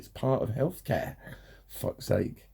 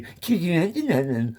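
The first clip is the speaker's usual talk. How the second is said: higher, louder whiny 'Cause you acting like that; childish mocking voice; 7 semitones higher, 4 dB louder than usual. Shown as a demonstration. Mocking society's reply to him, childish put-on voice. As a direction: mimic the sneering grown-up talking down to a kid. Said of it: "You literally put that voice on".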